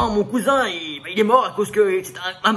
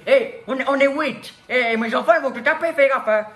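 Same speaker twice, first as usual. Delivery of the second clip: touchy woman; 3 semitones higher than usual. Acted. A manicurist woman defending herself against the rich man, indignant. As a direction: bristle at being called poor. Plays angry working-class woman.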